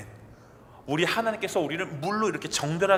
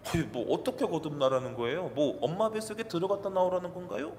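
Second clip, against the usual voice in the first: mocking sneer; 2 semitones higher, 4 dB quieter than usual. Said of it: "비아냥거려요".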